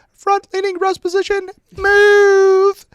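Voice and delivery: put-on very high, piercing little-girl shout; little girl yelling. Little girl ordering Ranger students into push-up position, high-pitched yell. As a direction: yell the command like a tiny drill sergeant. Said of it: "with a little girl high-pitched voice".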